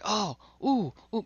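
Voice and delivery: high, yelping imitation of an excited young dog. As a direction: squeal it like a dog thrilled by something in the water. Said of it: "but excited, delighted".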